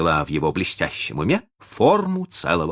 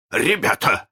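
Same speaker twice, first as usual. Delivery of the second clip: slightly trembling, higher call; mildly unsettled, raised voice; slight tremor; 7 semitones higher, 4 dB louder than usual. A narrator's reading. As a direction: address the men with a faint quiver. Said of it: "сказал он с лёгкой дрожью".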